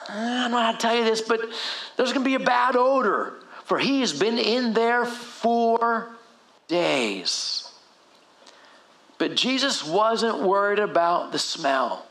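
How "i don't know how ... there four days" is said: higher, reluctant delivery of awkward news; embarrassed, unsure. Acted. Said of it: "maybe a little bit embarrassed, like, not sure".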